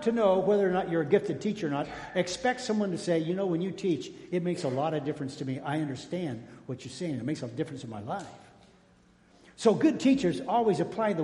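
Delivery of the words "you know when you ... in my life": quiet sincere thanks. Acted. Grateful listener's praise, acted softly.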